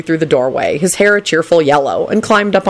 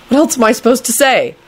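raised-pitch mild desperation; desperate thought; 7 semitones higher than usual. A narrator's reading. Neville at a loss before Kingsley, high mild desperation. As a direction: plead inwardly, pitch lifted. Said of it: "he thought desperately".

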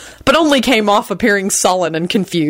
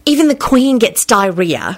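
kind, reassuring, slightly raised pitch; kindly; 4 semitones higher than usual. A narrator's reading. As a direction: tell him kindly, putting him at ease. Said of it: "she told him kindly".

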